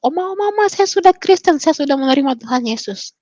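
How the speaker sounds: high-pitched, breathless-with-news re-enactment, settling toward the end; high excited voice, gradually coming down; excited announcement. Retold or imitated. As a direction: burst in to tell Grandma the big news. Runs in announcing news to grandmother.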